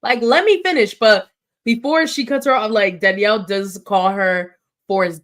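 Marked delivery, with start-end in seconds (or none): 0.0-0.9 louder, higher mock snap; imitating a cut-off castmate; mock angry snap. Carolyn snapping at Danielle, mock angry. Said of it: "She's like".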